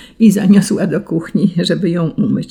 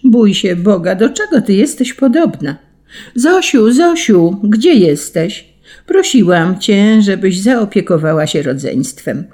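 scolding mother; 2 semitones higher, 3 dB louder than usual. Acted. Mother calling for Zosia to help, exasperated scolding.

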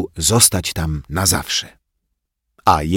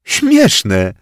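amused; 7 semitones higher, 6 dB louder than usual. Acted. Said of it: "potwierdził ubawiony Grześ".

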